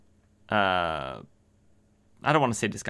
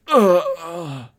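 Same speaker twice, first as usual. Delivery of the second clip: dying gasps; 7 semitones higher, 7 dB louder than usual. Retold or imitated. Gregory dying after shooting himself.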